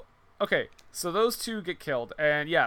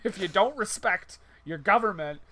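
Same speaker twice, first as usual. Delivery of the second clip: louder, faster, faux-indignant; mock patriot rant; 3 semitones higher, 4 dB louder than usual. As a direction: rant like a flag-waving patriot.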